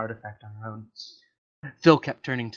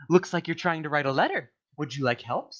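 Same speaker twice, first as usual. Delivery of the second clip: paperclip voice; 3 semitones higher than usual. Acted. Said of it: "asked the alien".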